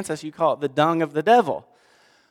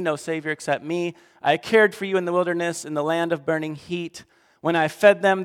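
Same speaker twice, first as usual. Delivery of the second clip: preacher voicing God's fury; fierce scripture reading; 2 semitones higher than usual. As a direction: growl out God's threats to a faithless people. Reads God's words in Hosea.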